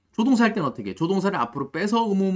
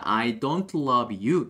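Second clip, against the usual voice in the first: slow model sentence; 3 semitones lower, much slower than usual. Shown as a demonstration. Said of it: "이렇게 문장을 만들면 됩니다".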